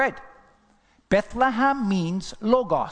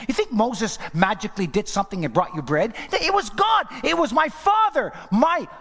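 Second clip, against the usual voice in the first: rising preaching; 2 semitones higher than usual. Real, not acted.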